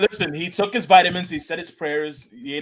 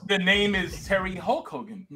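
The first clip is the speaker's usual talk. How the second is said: wrestler announcer voice; 4 dB quieter, slower than usual. Retold or imitated. Mock wrestler introduction.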